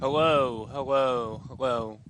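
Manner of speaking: fan-warped wobbling voice. Real, not acted. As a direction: speak right into a spinning fan. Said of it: "talking into a fan".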